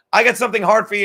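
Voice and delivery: real laughter on the words; laughing shout. Real, not acted. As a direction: burst out laughing as you read it. Reading chat line, cracking up.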